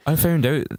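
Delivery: amateur high Irish lilt; Irish accent attempt. Practising the Irish sentence.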